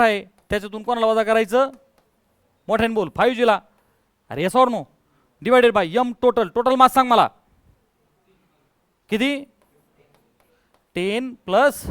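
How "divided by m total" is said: very slow, each word spaced and pressed; slow dictation. Shown as a demonstration. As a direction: spell it out slowly for the class. Teacher dictating step slowly. (हळू, शब्द न् शब्द सांगत)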